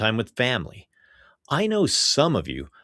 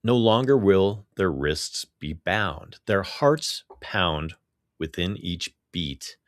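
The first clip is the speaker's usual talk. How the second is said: poetry reading; 3 semitones lower than usual. Real, not acted. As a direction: recite it line by line with weighted pauses. Get into reading this week's poem.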